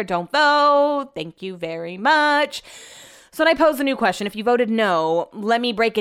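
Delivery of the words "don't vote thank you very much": high, loud, stretched-out admonishment; exasperated scolding. Real, not acted. Telling out-of-town poll voters off, exasperated. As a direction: lay down the law, drawn out.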